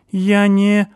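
high, loud hysterical accusations; panicked screaming; hysterical shouting. A narrator's reading. Stasik stammering.

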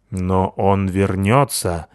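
slow, gloomy little voice; gloomy hedgehog. Acted. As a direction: promise it darkly and slowly. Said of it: "мрачно пообещал высунувшийся из норы ёж". (мрачный медленный голос ежа)

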